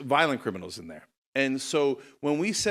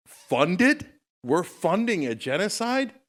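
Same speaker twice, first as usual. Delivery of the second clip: outraged; 6 semitones higher, 3 dB louder, slower than usual. Real, not acted. Outrage at funding genocide.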